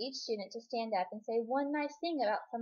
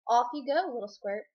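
cheerful send-off; 2 semitones higher, 8 dB louder than usual. A narrator's reading. Proud papa sends her off.

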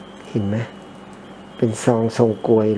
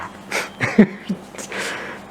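breathless wheezy laugh; 8 semitones higher, 4 dB quieter than usual. Real, not acted. Laughing about wife's scolding.

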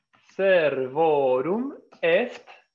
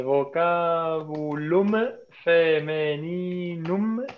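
slow model answer; slower than usual. Shown as a demonstration. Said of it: "teacher models the answer".

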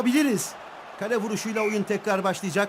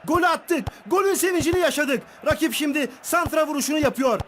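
excited commentator; 6 semitones higher than usual. Acted. Goal celebration commentary.

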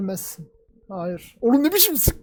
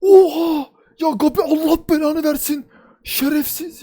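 loud, high shocked curse; angry outburst; 7 semitones higher, 6 dB louder than usual. Real, not acted. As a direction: blurt it out in furious disbelief. Furious at Gabi shooting. (yüksek sesle öfkeli şaşkın beddua)

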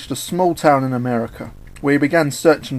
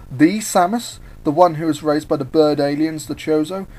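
starstruck, pitched up on the first words; awed; 3 semitones higher than usual. Acted. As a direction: gush in awe, rising at the start. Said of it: "Sonic was in awe".

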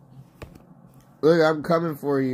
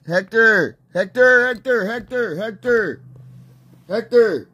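higher, repeated name-calling; insistent calling; 3 semitones higher than usual. Real, not acted. Player pestering his teammate, insistent calls. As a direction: call the name over and over.

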